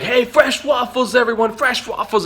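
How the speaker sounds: high, slow shouted waffle call. Retold or imitated. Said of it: "he's like".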